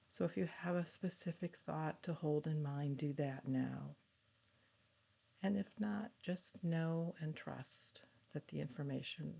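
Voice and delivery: measured guided-visualization voice with long pauses; guided meditation. Acted. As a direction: lead them gently through an imagined journey, phrase by phrase.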